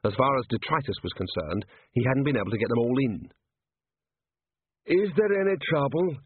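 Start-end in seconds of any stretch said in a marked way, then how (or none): 4.9-6.2 troll voice. A narrator's reading. Troll character voice.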